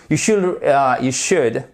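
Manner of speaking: "should" said slowly with no L sound; silent L. Shown as a demonstration. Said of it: "on prononce pas le L". (« should » lentement, sans prononcer le L)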